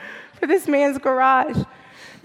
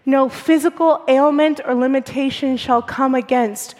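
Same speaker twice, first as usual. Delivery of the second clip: strained, hoarse voice; speaking through a lost voice. Real, not acted. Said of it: "This is just me having lost my voice".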